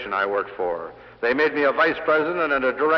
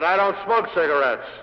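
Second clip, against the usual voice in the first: a raised, firm retort; rather loud; 4 semitones higher, 4 dB louder than usual. Retold or imitated. Salesman answers the tobacco president, rather loud. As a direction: push it out a bit louder to the boss. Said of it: "in a rather loud tone of voice".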